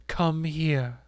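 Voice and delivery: insist, measured and unyielding; firm summons, not shouted; stern command. A narrator's reading. Accuser repeats her order.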